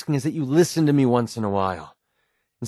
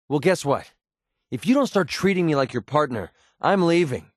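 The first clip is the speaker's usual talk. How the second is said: angry ultimatum; 3 semitones higher than usual. Acted. Companion angrily confronts the player.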